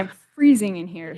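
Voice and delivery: shaky voice from the cold; shivering. Real, not acted. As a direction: talk while shivering with cold. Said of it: "shaking 'cause I'm so cold right now".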